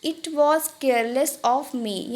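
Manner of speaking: very slow, drawn-out demo; Hindi: बहुत धीरे खींचकर; very slow model phrase. Shown as a demonstration. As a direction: stretch it out for learners. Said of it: "यानी कि".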